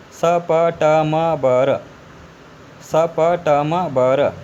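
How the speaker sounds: स, प, ट, म, ब, र each consonant said apart, firmly; letter by letter. Shown as a demonstration. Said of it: "अब देखिए". (अक्षर-अक्षर पढ़ना)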